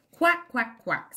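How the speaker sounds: high, loud little quacks; ducklings quacking. Acted. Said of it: "says the ducklings".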